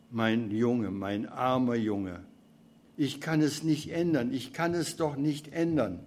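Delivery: put-on a tired old God, whimpering lightly; weinerlich. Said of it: "du bist weinerlich".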